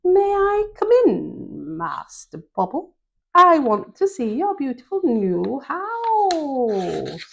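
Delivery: high, slow, sly gentle voice; gentle fox voice. Acted. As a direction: coax sweetly like a sly fox. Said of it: "a gentle voice said".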